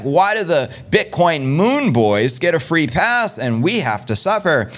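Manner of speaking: slow, mock-indignant complaint; mildly upset. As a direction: retell his complaint slowly, a touch upset. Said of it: "pretty upset. He's like".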